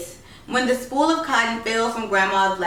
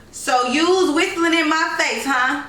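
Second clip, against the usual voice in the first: put-on raised, higher challenge to the child; sharp grandma challenge; 6 semitones higher than usual. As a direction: catch her out, pitch up and bite. Grandma confronts Isis.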